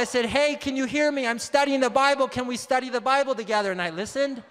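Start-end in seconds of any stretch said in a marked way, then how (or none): 0.3-3.7 mock yell through the toilet. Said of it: "And I yelled".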